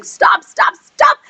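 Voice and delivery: high-pitched repeated cries; acted frantic plea. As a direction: imitate a crowd begging in a high voice. Voicing characters begging to stop.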